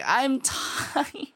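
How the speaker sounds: high-pitched mock whine; worn-out parent's plaint, half laughing; exasperated parent. Parent to a screaming child, comically exasperated. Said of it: "you're just like".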